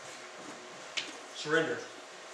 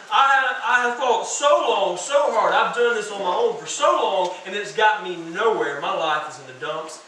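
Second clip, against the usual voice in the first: despairing son; 2 semitones higher, 5 dB louder than usual. Acted. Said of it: "He realizes".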